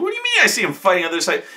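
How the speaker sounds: high, fast incredulous question. Retold or imitated. Player questioning the DM's odd description, incredulous. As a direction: rattle it off in disbelief. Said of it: "I mean".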